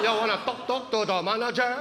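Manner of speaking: exaggerated, taunting Filipino accent; mocked Filipino accent. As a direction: mimic her Filipino accent as a teasing question. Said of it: "making fun of my mom's accent".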